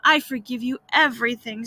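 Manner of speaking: mild pained groan. Acted. Boy faking death forgives his brother, mildly groaning. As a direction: lightly groan out a dying pardon. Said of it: "Tom groaned".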